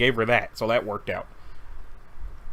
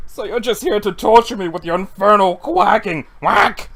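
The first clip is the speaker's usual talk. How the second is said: exasperated yell; 6 dB louder than usual. Acted. Yelling at duck.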